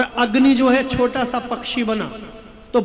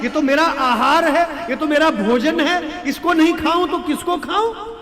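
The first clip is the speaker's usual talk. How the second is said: complaint climbing higher line by line; protesting hawk; 4 semitones higher than usual. Acted. Hawk protesting to the king who takes away its food, indignant. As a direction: argue for your meal, pitch rising to the end.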